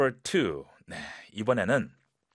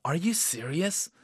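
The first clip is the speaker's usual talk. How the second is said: slightly laughing; 6 semitones higher, much slower than usual. Shown as a demonstration. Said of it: "약간 웃으면서".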